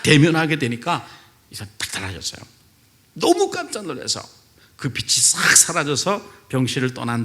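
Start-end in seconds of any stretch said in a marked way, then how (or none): none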